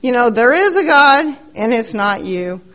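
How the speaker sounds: lightly voiced bossy older man, rattling off orders; mild imitation of a loud old-timer sponsor. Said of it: "he does not stop talking".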